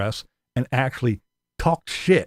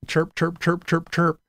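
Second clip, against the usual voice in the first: mock chirping; 6 semitones higher than usual. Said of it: "people can run around".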